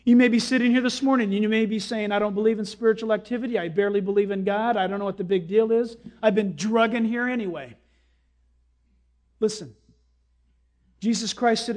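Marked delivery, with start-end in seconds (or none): 2.1-7.8 dismissive sceptic. Acted. Voices a reluctant churchgoer's objections.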